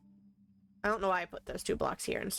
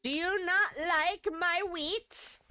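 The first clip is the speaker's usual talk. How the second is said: mock offended; 9 semitones higher, slower than usual.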